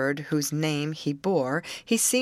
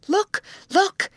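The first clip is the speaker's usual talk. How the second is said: very high, loud call; two high-pitched, louder bursts; urgent exclamation; 6 dB louder than usual. A narrator's reading. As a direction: exclaim sharply to grab their attention. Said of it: "exclaimed Grace".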